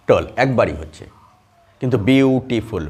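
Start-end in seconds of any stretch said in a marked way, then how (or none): 2.0-2.9 বিউটিফুল drawn out in three separate syllables. Shown as a demonstration. Teacher counting how often the mouth moves, বিউটিফুল in slow syllables. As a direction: stretch বিউটিফুল so each of its three mouth movements shows. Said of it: "এই তিনবার নড়ছে".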